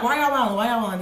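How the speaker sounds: mild imitation of a yell, easing off; half-hearted retold yell; mock yelling. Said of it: "the brother is yelling again".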